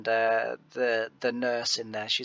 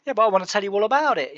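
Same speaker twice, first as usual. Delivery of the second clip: eager mock plea; 9 semitones higher, 5 dB louder, much faster than usual. His own eager retort.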